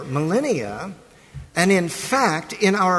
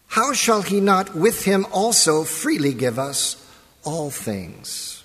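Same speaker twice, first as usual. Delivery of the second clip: formal, raised reading of the verse; scripture reading. Acted. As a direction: read the epistle with gravity. Reads Romans chapter eight.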